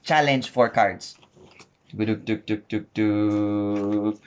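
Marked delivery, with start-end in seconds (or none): 2.0-4.2 rhythmic duk-duk, last one drawn out; playful filler noise. Real, not acted. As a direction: patter duk-duk while laying out cards. Filler noises while setting cards.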